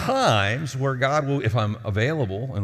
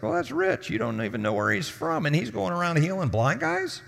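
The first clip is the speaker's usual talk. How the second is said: sarcastic retort; 5 semitones higher than usual. Retold or imitated. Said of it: "He's like".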